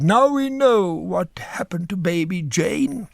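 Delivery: slow, high, whispered bitchy aside; catty whispered quip. Retold or imitated. Critic whispering a catty joke about the actress, hushed. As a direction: whisper the put-down slowly with relish. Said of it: "Bobby Lang said".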